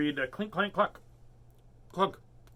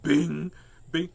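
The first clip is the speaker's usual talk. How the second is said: imitated bang; 6 dB louder than usual. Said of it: "Cosmo's like".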